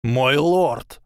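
high, fearful cry; frightened call. A narrator's reading. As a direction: call out in fear. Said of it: "испуганно прошептал силуэт".

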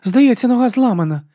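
high startled cry about the leg; sharp high cry of alarm. A narrator's reading. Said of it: "скрикнула Алекс".

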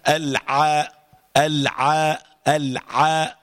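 slow, repeated "العاء" with a tight ayn; deliberate drill on "العاء"; clear ayn. Shown as a demonstration. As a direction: press the ayn of "العاء" from the throat. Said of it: "العين كده أهو".

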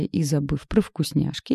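ordinary delivery

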